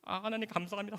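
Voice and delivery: a hushed, awed prayer of thanks. Retold or imitated. Repeated thanks to God. ("하나님 감사합니다"를 작고 높게 숨죽여 말하듯)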